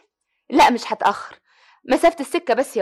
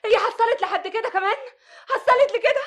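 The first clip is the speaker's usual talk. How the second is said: hurt disbelief; 8 semitones higher than usual. Acted. Wife hurt that she is suspected.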